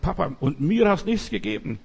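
elder brother protesting to father about the wastrel; accusing complaint. Acted. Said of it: "der klagt an und sagt".

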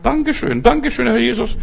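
high, bright-hearted thank-you to Jesus; elated high-pitched gratitude; joyful thanks. Shown as a demonstration. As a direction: show them how to thank with delight.

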